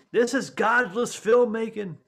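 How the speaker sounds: slow, high pious disapproval; a hint of a scandalized Mormon; prim Mormon. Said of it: "Mormons were like".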